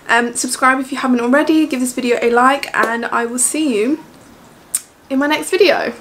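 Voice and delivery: breathless loud outro; panting through the sign-off; out of breath. Real, not acted. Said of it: "I'm out of breath".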